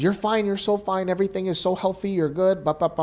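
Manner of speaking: a hint of a bubbly doctor delivering good news; cheerful doctor.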